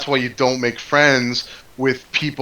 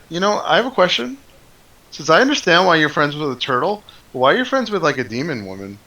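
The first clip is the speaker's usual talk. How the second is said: NPC voice; 5 semitones higher than usual. Acted. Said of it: "he's like".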